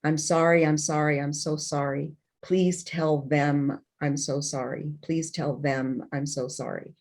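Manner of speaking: pleading sorry, slowing and fading toward the end; repeated apology. Retold or imitated. Dying father begging forgiveness, slow and fading. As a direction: soften and slow with each repeat. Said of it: "he said to me over and over again".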